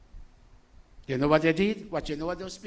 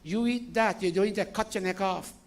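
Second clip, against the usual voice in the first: mom's threat; 5 semitones higher, 3 dB louder than usual. Retold or imitated. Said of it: "my mom would say".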